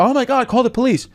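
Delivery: high, frantic mother voice; mock panicky mother. Comic imitating his mother panicking, high and frantic. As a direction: squeal it like a worried mom.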